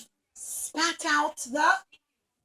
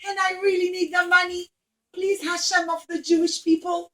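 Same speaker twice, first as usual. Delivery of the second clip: raised, urgent pleading to God; pleading prayer; 3 semitones higher than usual. Acted. Woman begs Hashem to repay her loan, pleading. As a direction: beg Hashem for help, voice lifted.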